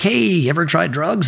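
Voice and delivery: breezy mock recruiter asking; recruiter's question. Recruiter screening a young Navy applicant, lightly voiced.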